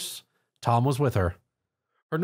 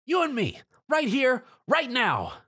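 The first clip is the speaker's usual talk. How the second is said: cocky challenge; 12 semitones higher than usual. Acted. Rainbow challenges Tom to fight.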